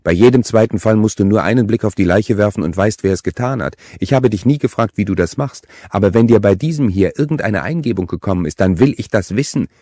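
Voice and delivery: exasperated, emphatic confrontation; heated demand. A narrator's reading. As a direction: press your brother hard for an answer. Angry sister demands the truth.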